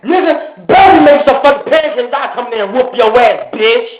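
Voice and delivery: high-pitched, bullying demand; retold angry threat. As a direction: act out threatening the cook. Retold threat over pancakes.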